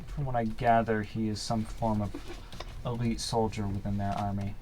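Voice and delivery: slow, measured informant with long pauses; unhurried in-character briefing; game master in character. Acted. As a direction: tell it gravely, pausing between phrases.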